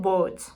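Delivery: "boat" as the former sound of boot; long O vowel in "boat"; old pronunciation. Shown as a demonstration. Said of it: "had previously been pronounced".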